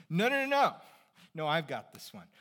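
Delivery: insisting friend. Retold or imitated. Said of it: "what happens every time".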